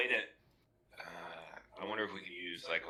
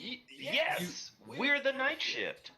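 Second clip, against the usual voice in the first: squeaky high-pitched reply; high mock voice; much slower than usual. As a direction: pitch way up, slowed. Player answers the creature in character.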